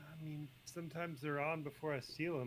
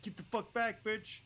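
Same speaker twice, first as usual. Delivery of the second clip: higher, loud threatening yell; angry shout; 9 semitones higher, 5 dB louder, slower than usual. Retold or imitated. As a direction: bark it at the attacker. Ricky draws knife, shouts.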